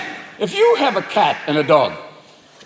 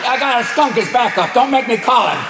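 higher, mildly threatening critter; ballsy raccoon; 4 semitones higher than usual. Acted. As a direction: make a cocky little threat. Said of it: "they look at you like".

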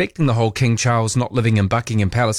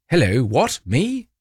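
mock Charles; 3 semitones higher, slower than usual. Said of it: "Like that".

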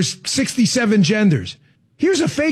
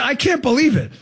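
higher, mock incredulous; sarcastic disbelief; 3 semitones higher than usual. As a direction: toss it off in fake shock. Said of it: "if you're sensing the dripping sarcasm".

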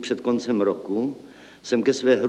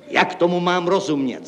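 high-pitched cry of bafflement; indignant exclamation; 7 semitones higher than usual. A narrator's reading. Accountant demands an explanation, indignant exclamation. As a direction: call out the question, pitched up. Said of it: "zvolal hlavní účetní".

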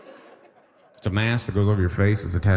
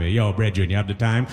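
lightly Jamaican. Retold or imitated. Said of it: "the Jamaican asks you for the time".

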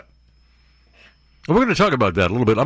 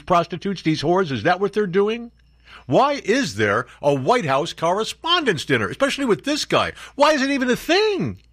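exasperated rant; 8 semitones higher than usual. Real, not acted. Host fed up with reporters attending the dinner, rising exasperation.

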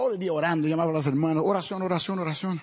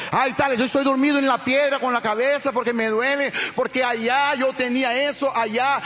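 whiny believer; 5 semitones higher than usual. Pretend. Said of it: "mocking a stuck believer".

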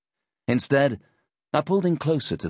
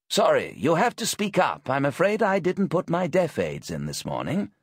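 put-on old man voice; 9 semitones higher than usual. Deaf old man speaks.

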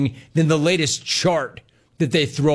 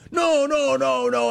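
high-pitched string of denials; mock protest; 11 semitones higher than usual. Host mimicking a reporter caught trapping, high protest. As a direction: imitate someone hastily backpedaling, high.

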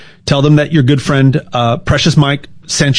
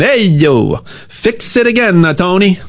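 Italian accent; 2 semitones higher than usual. Shown as a demonstration. Explaining the car brand joke in a light Italian accent. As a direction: ham up an Italian guy: hey yo, fix it again Tony. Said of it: "I'll say it with an Italian accent".

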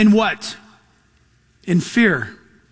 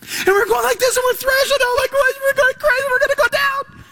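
very high, far, frantic wailing voice; panicked screaming. Pretend. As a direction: thrash and wail in panic, pitch way up. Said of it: "throne of your emotions screaming at you".

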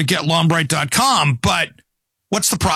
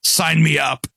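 dry mock approval, pitched down; sarcastic; 4 semitones lower than usual. Guest mocks a ban on killing rats and mice, sarcastic. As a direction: feign being sold on a bad idea. Mocking a proposed pest control ban.

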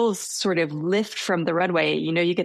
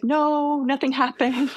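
imagined protest; 7 semitones higher than usual. Retold or imitated. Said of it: "I wanted to say".

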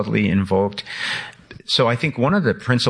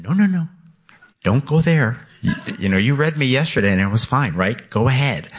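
higher-pitched, hurried-off objection, then coaxing; coaxing book voice; 4 semitones higher than usual. Acted. Book talking back to its doubting writer, coaxing. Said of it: "And the book said".

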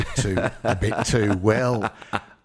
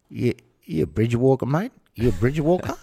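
put-on Aboriginal Australian accent, louder and higher, teasing; Aboriginal English accent; 5 semitones higher, 4 dB louder than usual. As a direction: imitate an Aboriginal kid's accent, poking fun at him. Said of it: "It's actually not a bad accent".

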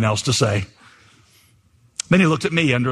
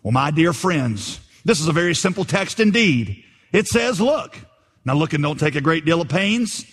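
lightly voiced homespun pulpit preacher; earnest, folksy preacher's sing-song; simple country preacher; 3 semitones higher than usual. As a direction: preach it plainly, lilting up on key phrases. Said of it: "so the preacher began thus".

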